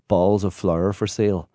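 reading a sign. Retold or imitated. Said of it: "big signs on the side of the road saying".

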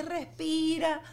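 a slow, laughing tease. Real, not acted. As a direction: chuckle while teasing. Laughing joke to mothers.

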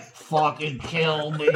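lightly voiced dinosaur, drawn-out slow groan of words; miserable dinosaur. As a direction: drag it out slowly, as a fed-up dinosaur. Voicing a carried, miserable dinosaur.

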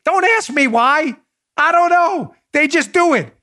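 ordinary talk, nothing marked

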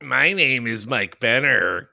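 slow golem voice, flat and heavy; slow stone monotone. Acted. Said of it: "We were all doing a golem voice there?".

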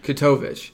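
"Katovich" echoed as kuh-TOE-vitch; careful echo of "Katovich", kuh-TOE-vitch; repeating the pronunciation. Shown as a demonstration. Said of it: "what is it?".

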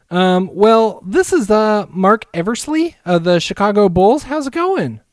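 a hint of a smarmy front office guy; mock Bulls GM. Pitching a trade to the Wolves GM in a put-on smooth GM voice. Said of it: "Why does the Chicago G M sound like I wanna kick his ass?".

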